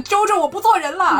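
high, loud dramatic yell; shouting. Acted. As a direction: bellow it out like an anime villain. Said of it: "突然大喊一声".

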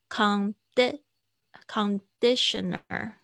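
Condi-，conditioner slow, with the stress landing on the di. Shown as a demonstration. Teacher slowly showing students where the stress falls. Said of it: "重音是在哪边".

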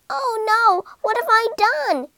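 horrified at her own mistake; panicked rat. A narrator's reading. Rat seeing the boat sink, panicked.

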